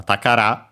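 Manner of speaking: "takara" with the accent on the last syllable; final-syllable accent. Shown as a demonstration. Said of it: "accent on the last syllable".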